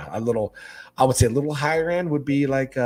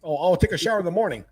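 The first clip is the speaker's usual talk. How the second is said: mock lazy guy; 8 semitones higher, faster than usual. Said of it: "and then go".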